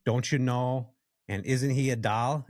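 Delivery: lightly imitated Fargo, North Dakota accent. Nurse chatting at the nursing station, light Fargo accent. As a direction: try a nurse's Fargo accent, not very well. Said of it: "she had this incredible accent".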